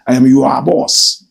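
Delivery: "your" drawn out as "yu-a", slowly; slow mock boast with "your" said "yu-a"; mimicking his pronunciation. Host quoting the politician's boast, "your" slowed to "yu-a". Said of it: "That's how he speaks".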